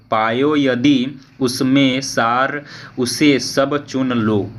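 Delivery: slow, measured reading of verse; slow classroom poem reading; poem recitation. Acted. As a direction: recite the lines slowly, giving each verse its weight. Reads poem verses aloud.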